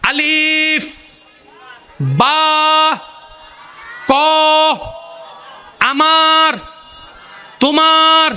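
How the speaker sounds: high, sustained sounds, each held long; ringing drawn-out demonstration of tongue-made sounds; articulation demo. Shown as a demonstration. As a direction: sound out each item singly, stretched and clear. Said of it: "জিব্বার কাজটা কি? শব্দ বানাই দেয়।".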